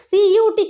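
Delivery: সিইউটি said as cute, the wrong way; mock wrong kiut for সিইউটি; wrong reading. Shown as a demonstration. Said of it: "কিউট আমরা উচ্চারণ কিন্তু করি না".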